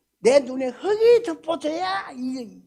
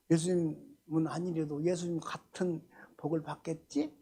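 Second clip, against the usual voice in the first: hushed aside; 6 semitones lower, 7 dB quieter than usual. Acted.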